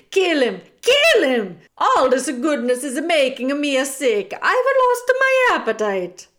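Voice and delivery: high, loud, disgusted tirade; villain bellowing in disgust; shouting. A narrator's reading. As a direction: goad furiously, rising to a shriek. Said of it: "shouted Bertoli again".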